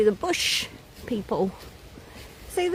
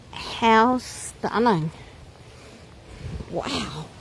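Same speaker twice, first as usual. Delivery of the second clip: excited wildlife host whisper; 4 semitones higher than usual. Real, not acted. Cooing at a foxglove flower.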